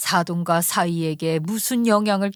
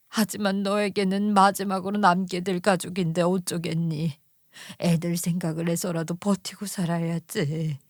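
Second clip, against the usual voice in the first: mother consoling; 3 semitones lower than usual. Acted. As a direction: comfort her daughter gently. 친정엄마가 딸을 달램. (딸을 다독이는 친정엄마, 부드럽게)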